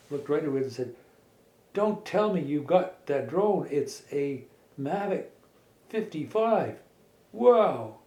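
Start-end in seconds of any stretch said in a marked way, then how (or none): 1.7-6.8 amazed. A narrator's reading. Lightning and Queen amazed. 7.3-8.0 wow. A narrator's reading. Characters marvel at drone.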